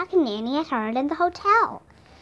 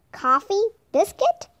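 put-on bright girlish offer; 8 semitones higher than usual. Annie offers Jack breakfast.

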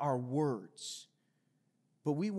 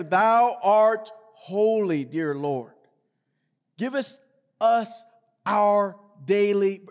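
slow, louder, drawn-out pompous prayer voice; mock King James prayer; 2 semitones higher, 8 dB louder, slower than usual. Pastor mocks people who pray for show, slow and pompous. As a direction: ham up a showy churchy public prayer. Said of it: "you sound like the King James Version of the Bible".

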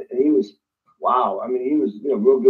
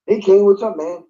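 breezy producer; 7 semitones higher, 4 dB louder than usual. Retold or imitated. Producer's breezy call retold.

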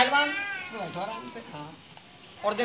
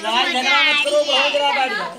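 1 firm call; 5 dB louder than usual. Real, not acted. Stopping a fight.

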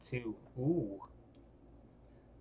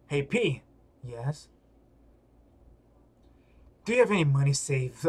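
ordinary delivery

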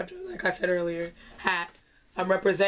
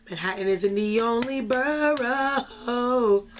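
lightly voiced slow R&B singer, a touch higher; a hint of Zion T, stretched out slow; Zion T impression; 3 semitones higher, much slower than usual. Inviting the singer to visit, in a light mock Zion T voice. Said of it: "that was my attempt at a Zion T impression".

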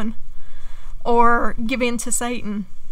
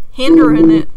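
emphatic; 5 semitones higher, 9 dB louder than usual. Real, not acted. Repeats the word, louder.

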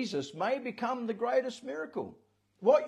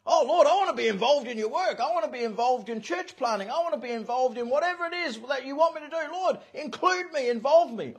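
eager plea; 4 semitones higher, 5 dB louder than usual. Retold or imitated. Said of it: "eager believer praying".

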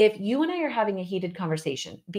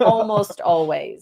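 almost always drawn out slowly, stressed; hedging word added; 5 dB louder, much slower than usual. Shown as a demonstration. Teasing her husband about softening blame, slow and stressed. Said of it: "Just add a word in there".

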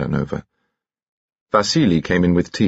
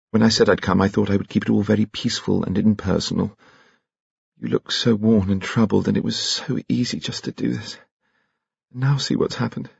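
a hint of a higher woman's voice, troubled; lightly raised voice, self-reproachful; Troy, lightly voiced; 4 semitones higher than usual. Troy confessing to Alain, gently troubled.

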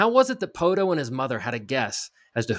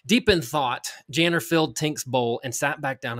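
lively reading. Shown as a demonstration. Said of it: "read it maybe the way you want to bring some life".

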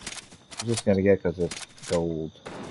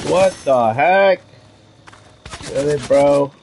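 surprised; 6 semitones higher, 6 dB louder than usual. Real, not acted. Surprised in a shootout.

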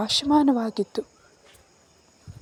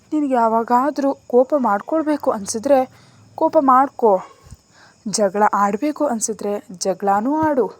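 raised, louder emotional urging; impassioned plea; 3 semitones higher, 6 dB louder than usual. A narrator's reading. Woman begging her lover not to shut her out, impassioned. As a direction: plead earnestly, pushing each permission.

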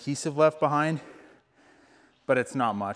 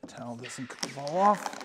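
whispering; slower than usual. Real, not acted. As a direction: whisper it under your breath. Quiet aside while working.

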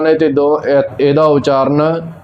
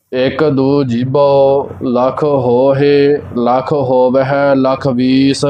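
measured Gurbani recitation on a level tone; even, unhurried devotional reading; scripture recitation; slower than usual. Real, not acted. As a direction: recite line by line with drawn-out endings. Recites the verse.

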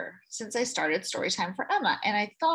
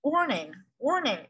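bell voice; 3 semitones higher than usual. Acted. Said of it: "it said".

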